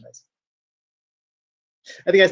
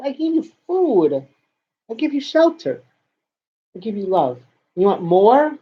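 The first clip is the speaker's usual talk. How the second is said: mock grand lecture; 3 semitones higher than usual. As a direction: list your gifts like a long-suffering parent.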